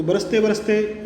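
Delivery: बरसते बरसते slowed and weighted; each बरसते given its own weight; stress on बरसते बरसते. Shown as a demonstration. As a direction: drag out बरसते बरसते slowly with emphasis. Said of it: "इसको थोड़ा जोर देके बोलेंगे".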